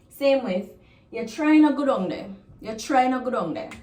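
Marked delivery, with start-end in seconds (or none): 1.1-3.7 louder warning command; strong command. Shown as a demonstration. Parent warns a child off, stern command. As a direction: order the child to stay away. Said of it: "If you go down there, I'll do this".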